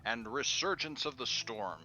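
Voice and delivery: announcer voice. Pretend. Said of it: "I should work on my announcer voice".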